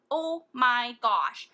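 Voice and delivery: slow and loud in awe; awed, drawn out. Real, not acted. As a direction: stretch it out, amazed. Raving about the pigment.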